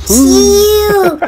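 long drawn-out celebratory yell; mimicked celebration cry. Reactor copying the celebration from the video, drawn-out shout. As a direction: shout it out as one stretched note.

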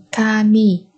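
"kami" slowly, m starting the last syllable; linked sounds. Shown as a demonstration. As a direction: split it as "ka", "mi". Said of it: "nối âm kham và y thành".

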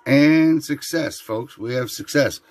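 slow, loud, drawn-out triumph; triumphant. Real, not acted. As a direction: announce the win proudly. Triumphant announcement.

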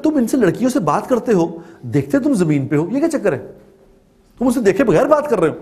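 retold wifely challenge, pitch jumping up; questioning wife. Wife questions husband about talking to shop girls, mock-challenging. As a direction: imitate a wife querying her husband's odd behaviour.

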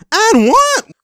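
high, loud and-one holler; real courtside yell; excited shout. Real, not acted. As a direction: yell the call out hard. Calling out a basket.

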